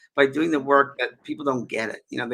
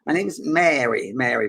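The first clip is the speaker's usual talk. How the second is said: slow Scottish lilt on the name; Scottish accent; 4 dB louder than usual. Retold or imitated. Simple Scottish lady introduces herself at a séance, Scottish accent. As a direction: attempt a drawn-out Scottish introduction. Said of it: "this is Scottish".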